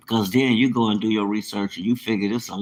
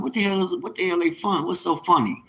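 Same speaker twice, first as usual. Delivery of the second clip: puzzled what the hell; 8 semitones higher than usual. Retold or imitated. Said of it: "I'm like".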